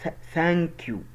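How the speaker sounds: "ثانك يو" slow, th with the tongue out. Shown as a demonstration. Teacher showing learners the sound, slow "ثانك يو" with th. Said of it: "بطلع لساني فيها".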